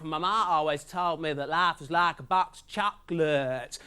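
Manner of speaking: slow, lightly voiced Forrest Gump. Comic doing Forrest Gump for the crowd, slow. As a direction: drawl it out slowly like Gump. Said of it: "Forrest Gump".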